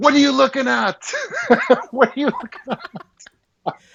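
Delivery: mock very high, shrill shout with swooping pitch. Retelling yelling at the kid on the engine: retelling a yell. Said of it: "And I yell at him".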